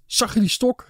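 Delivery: high-pitched, eager question; excited calling out. A narrator's reading. Mr Lee pacing after the standoff, calling out high and excited. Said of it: "riep hij".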